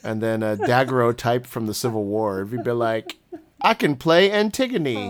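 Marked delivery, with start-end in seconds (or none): 3.6-5.1 lightly attempted Australian accent, higher and slow. Actor boasting of range, in a mock Australian accent. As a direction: put on your best Australian accent. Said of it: "in my best Australian accent".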